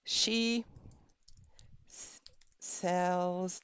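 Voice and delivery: muffled by a pen in the teeth. Shown as a demonstration. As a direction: speak around a pen held in the teeth. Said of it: "with the pen in your mouth".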